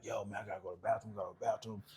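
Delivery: very soft, low, hurried murmur; imitated whispering. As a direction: whisper it quickly, like sneaking a word in line. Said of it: "everybody's kinda whispering".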